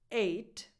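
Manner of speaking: Eight starting straight on the vowel, no breath; no air before the vowel in Eight; eight without h. Shown as a demonstration. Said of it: "No H sound".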